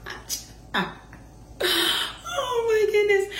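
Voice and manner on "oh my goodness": high, slow, teary laughter; laughing to tears. Real, not acted. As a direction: wheeze it out through tears.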